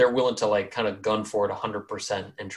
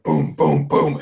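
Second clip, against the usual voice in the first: punchy footstep booms, getting louder; imitated booming footsteps; 3 semitones higher, 5 dB louder, slower than usual. Game master imitates giant's charging footsteps, punched booms. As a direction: voice each heavy thud. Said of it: "you hear, like, two warm-up".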